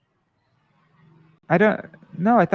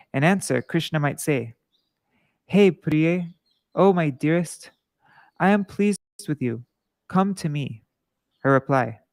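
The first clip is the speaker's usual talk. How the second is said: measured devotional read-aloud; scripture reading. A narrator's reading. Reader recites Radha's pleas to Krishna for listeners, measured scripture reading. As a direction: read the sacred dialogue out with steady, even phrasing.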